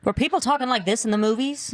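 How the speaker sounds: lightly put-on transatlantic accent; hint of old-Hollywood transatlantic speech. Shown as a demonstration. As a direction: talk like an old movie, in transatlantic. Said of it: "The transatlantic accent".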